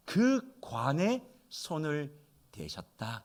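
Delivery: soft, slow reading of 그 관에 손을 대셨다. Shown as a demonstration. Pastor softly reading the verse to the congregation. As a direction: read it softly and slowly. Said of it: "그렇게 말합니다".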